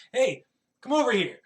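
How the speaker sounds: loud call across the yard. Acted. Woman calling the child over from the yard, loud. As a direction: shout her over from afar.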